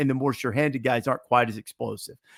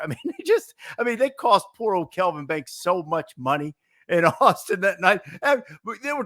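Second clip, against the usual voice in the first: laughing; 6 semitones higher than usual. Real, not acted. Laughing through the story.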